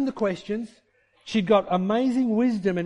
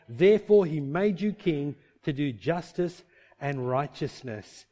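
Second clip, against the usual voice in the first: slow, weighty scripture reading; 3 semitones lower than usual. Acted. Preacher reading the verse slowly and solemnly.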